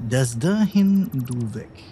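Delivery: put-on slow, playful pseudo-French accent; drawn out like a mock Frenchman; fake French accent. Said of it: "mit einem pseudo-französischen Akzent".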